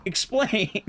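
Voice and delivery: breathy laughing whisper. Real, not acted.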